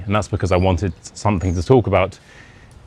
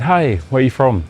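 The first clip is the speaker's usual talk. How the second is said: bright, higher friendly greeting; strangers' greeting; 6 semitones higher, 4 dB louder than usual. Retold or imitated. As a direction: cheerily hail a passing stranger. Strangers greet him, acted.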